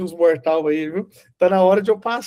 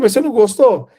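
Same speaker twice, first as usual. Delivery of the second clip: higher, louder puzzled question; taken aback; 6 semitones higher, 6 dB louder than usual. Retold or imitated. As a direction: ask it in retold surprise, pitched up. Retold surprised question to the boy.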